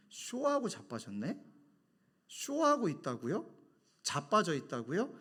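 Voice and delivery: slow, incredulous echo with questioning rises; imagined indignant retort. Pretend. Pastor's unspoken comeback to the caller, incredulous questioning. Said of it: "이렇게 말은 안 했습니다".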